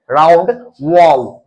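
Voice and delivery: वाओ slow, lips rounded. Shown as a demonstration. Teacher showing students how to round वाओ, slow. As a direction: round your mouth for वाओ. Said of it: "mouth को करते हैं round".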